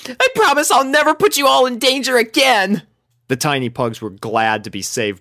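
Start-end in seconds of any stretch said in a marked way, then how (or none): 0.1-2.8 high, loud teary vow; tearful high promise. A narrator's reading. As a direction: swear it through tears. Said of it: "she sniffed".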